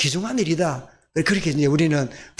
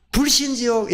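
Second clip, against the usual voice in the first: raised calling cry, pitched higher; mock street-preacher cry; 5 semitones higher than usual. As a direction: shout it out like an evangelist. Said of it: "소리 질렀던 전도자가".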